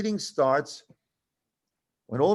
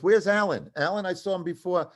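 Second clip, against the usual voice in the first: imitated boss calling across a room, higher; 5 semitones higher than usual. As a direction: call out for someone missing, raised pitch. Boss calls out for missing writer.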